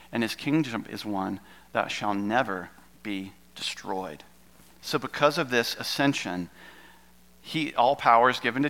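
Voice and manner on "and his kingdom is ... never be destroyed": slow, hushed whisper of the final promise; whispered scripture. Acted. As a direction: let the reading sink to a whisper. Reading scripture, ends in a whisper.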